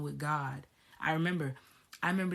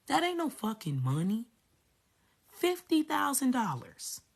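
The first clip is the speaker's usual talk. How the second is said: high, incredulous outrage with rising questions; indignant rant; 6 semitones higher, 4 dB louder than usual. Real, not acted. Telling listeners about the insulting salary, outraged. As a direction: pitch it up, stretching the sums in disbelief.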